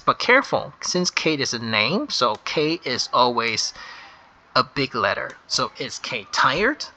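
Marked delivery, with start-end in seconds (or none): 5.8-6.8 slow dictation. Shown as a demonstration. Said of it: "That's how you write it".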